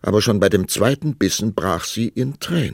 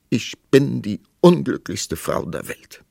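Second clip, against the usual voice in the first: higher, louder lament; miserable; 6 semitones higher, 5 dB louder than usual. A narrator's reading. Queen lamenting to the king, miserable. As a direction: bemoan it pitifully. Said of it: "Sie sah so bejammernswert aus".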